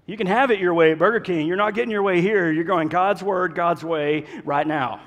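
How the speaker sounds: mock annoyed churchgoer. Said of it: "You're like".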